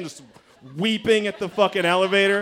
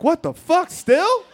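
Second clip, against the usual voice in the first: high-pitched, rising incredulous outburst; exasperated disbelief; 10 semitones higher, slower than usual. Retold or imitated. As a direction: act out baffled frustration, pitch climbing. Exasperated that crying will not stop.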